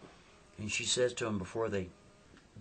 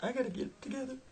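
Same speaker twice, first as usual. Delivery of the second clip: muttering to herself; 3 dB quieter, much faster than usual. Retold or imitated. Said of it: "She's like".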